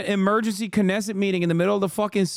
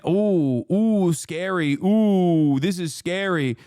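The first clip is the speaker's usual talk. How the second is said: drawn-out sarcastic ooh, scary; sarcastic fake fear mocking centrists; mock fright; slower than usual. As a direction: feign being scared. Sarcastic mock fright at neo-Nazi.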